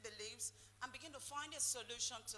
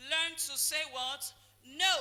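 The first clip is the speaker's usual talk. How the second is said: shouted call; 2 semitones higher, 10 dB louder, slower than usual. Real, not acted. Preacher demanding the answer from church, shouting No. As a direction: hammer the answer home.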